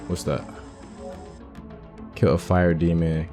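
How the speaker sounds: ordinary delivery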